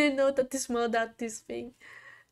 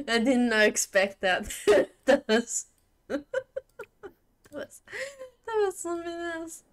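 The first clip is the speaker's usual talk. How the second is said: laughing; 5 semitones higher than usual. Real, not acted. Surprised by the game event.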